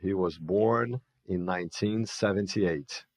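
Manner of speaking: very slow, every word spelled out; each word separate, no linking; slow word-by-word model; slow teaching read. Shown as a demonstration. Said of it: "E como é que eu monto ali?".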